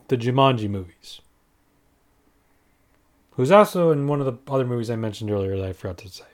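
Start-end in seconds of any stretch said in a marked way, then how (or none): 3.3-6.2 whispered aside. Real, not acted. Hurried whispered aside about forgetting.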